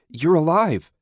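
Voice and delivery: can't believe she lived; amazed. Acted. Susan amazed at survivor.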